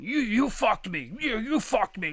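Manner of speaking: imitating an angry accusation, drawn out; mock belligerent accusation. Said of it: "like, belligerent".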